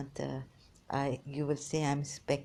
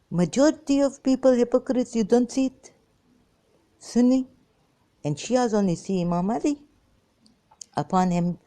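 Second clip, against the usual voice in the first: impassioned shout; 7 semitones higher, 8 dB louder than usual. Real, not acted. Preaching outburst against both sides.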